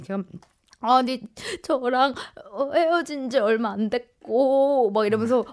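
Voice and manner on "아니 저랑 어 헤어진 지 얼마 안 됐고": slow, halting mock-weepy complaint; imitated tearful lament. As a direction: act out someone pouring out a breakup grievance, haltingly. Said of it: "나한테 하소연처럼 막 하는 거야". (울먹이며 하소연하는 흉내)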